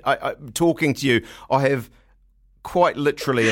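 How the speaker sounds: ordinary delivery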